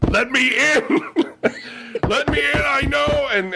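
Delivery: high, pleading "let me in"; mock creepy stalker. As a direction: voice him menacing at the door. The stalker voiced at her door.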